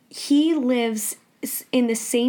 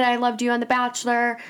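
chill and casual. Retold or imitated. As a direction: say it casually, no fuss. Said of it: "But I was, like, chill".

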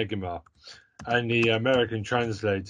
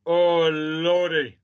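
exasperated groan-word; 6 semitones higher, 6 dB louder, much slower than usual. Retold or imitated. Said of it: "you're just like".

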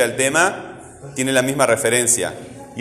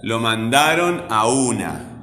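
slow phrase, leaning on the "u" of "una"; stress on U; slower than usual. Shown as a demonstration. Teacher helping pupils hear the tonic syllable, stressing "u" in "una". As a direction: draw out "a una" so the "u" stands out. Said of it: "Hay que escuchar el sonido".

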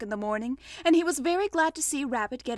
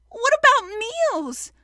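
high, loud, slow lament; gloomy; 12 semitones higher, 8 dB louder, slower than usual. A narrator's reading. Pooh worried for his meals, gloomy. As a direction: wail the question in dismay. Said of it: "said Pooh gloomily".

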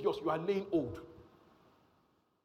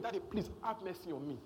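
a hint of a pleading child, a little softer; mock child begging; 2 semitones lower, 6 dB quieter than usual. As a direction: plead with daddy, lightly voiced. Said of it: "your daughter begging".

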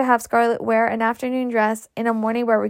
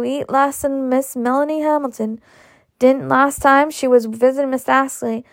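chatty, coaxing nursemaid gossip; Mammy's voice; 2 semitones higher than usual. Acted. Mammy speaking to Scarlett.

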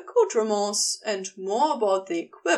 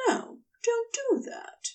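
hushed whispered warning; soft whispered command; 11 semitones higher, 4 dB quieter than usual. Acted. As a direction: breathe the stop, barely voiced. Gabriel stopping Crowley, hushed.

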